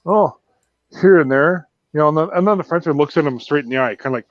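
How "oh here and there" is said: half-embarrassed, offhand shrug. Acted. Matt Damon answering the Frenchman, acted mild embarrassment. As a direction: brush it off a little sheepishly. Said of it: "half embarrassed. He kinda, like, shrugs".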